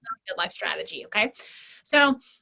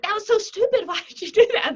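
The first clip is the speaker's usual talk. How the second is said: mock exasperation; 9 semitones higher, 3 dB louder than usual. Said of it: "we're like".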